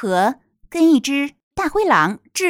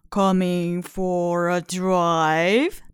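low, slow, whispered charmer; charming, cheery voice; 5 semitones lower, 3 dB quieter, much slower than usual. Acted. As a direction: whisper the invitation like a sly charmer. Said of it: "said a charming, cheery voice".

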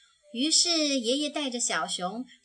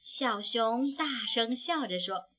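high, loud joyful cub; laughing aloud happily; 4 semitones higher, 5 dB louder than usual. A narrator's reading. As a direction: cry out with delight. (小熊开心地大声对爷爷说)

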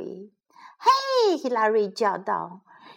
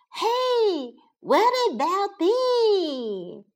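high, drawn-out hen's complaint; high-pitched plaintive hen call; clucking hen; 10 semitones higher, slower than usual. A narrator's reading. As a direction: squawk it high and long like a left-out hen. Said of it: "clucked Hilary Ham".

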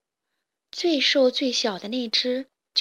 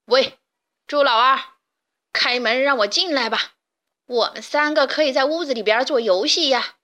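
sly wolf; 4 dB louder than usual. Acted. Wolf luring the pigs.

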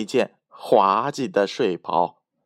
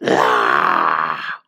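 put-on girlish laugh; 9 semitones lower, 4 dB louder than usual. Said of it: "小姑娘哈哈大笑".

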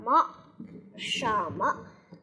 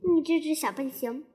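fond teasing. Acted. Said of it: "那怜爱语气".

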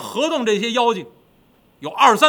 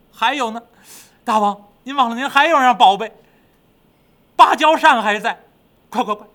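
high, loud underling; high, urgent servant voice; eager demon minion; 4 semitones higher, 6 dB louder than usual. Acted. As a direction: pipe up to remind your king. Minion reminds the king.

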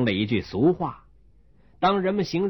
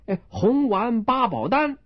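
higher, brisk eager answer; higher chirpy doctor answer; quick doctor reply; 8 semitones higher than usual. Acted. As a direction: snap back the rhyme. Doctor fires back answer.

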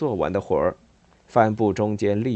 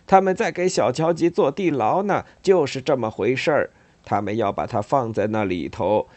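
put-on agitated old rabbit ranting, raised; Uncle Analdas ranting; 2 semitones higher than usual. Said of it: "他喊道".

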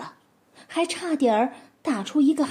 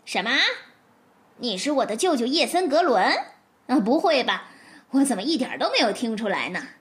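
mock surprise; faster than usual. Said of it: "向门外大声地问道".

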